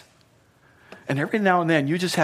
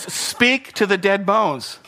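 booming command; 6 semitones higher, 4 dB louder, much slower than usual. Acted. Preacher voicing God's command.

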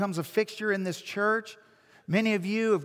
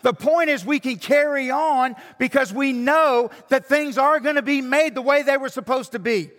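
much louder and higher, full-force preaching; 7 semitones higher, 8 dB louder than usual. Acted. Pastor rallying his congregation with the hope of the resurrection, preaching at full force. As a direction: drive it home to the congregation.

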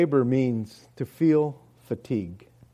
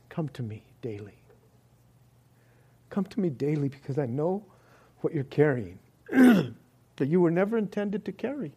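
choked up. Real, not acted. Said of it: "I'm not getting choked up".

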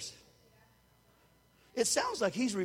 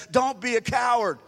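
stern rebuke; 7 dB louder than usual. Retold or imitated. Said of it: "Jesus said".

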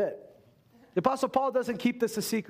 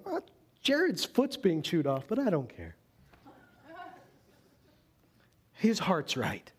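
apathetic. Retold or imitated. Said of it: "really apathetically going".

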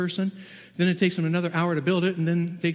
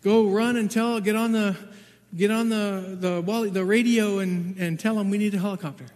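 calling out much louder and higher, urgent; retold yell; 5 semitones higher, 5 dB louder than usual. Husband yelling to the boy Tonga for help, urgent loud call. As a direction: shout the order to the boy across the yard. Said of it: "I'm yelling to Tonga".

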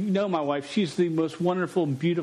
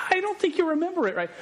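doubtful husband; 12 semitones higher, faster than usual. Retold or imitated. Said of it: "I was like".

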